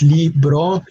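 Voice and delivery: "libro" in two separate syllables, li-bro; "libro" broken gently after li; split into syllables. Shown as a demonstration. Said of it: "two syllables".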